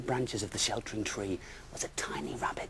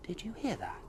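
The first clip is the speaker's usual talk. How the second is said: a wife hearing noises at night, hushed; Missus Bear; 11 semitones higher than usual. Acted. Bear wife asking her husband, high and hushed.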